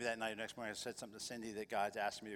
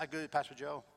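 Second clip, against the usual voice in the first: Charlie's voice; 4 semitones higher, 6 dB louder than usual. Retold or imitated. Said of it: "Charlie's Korean".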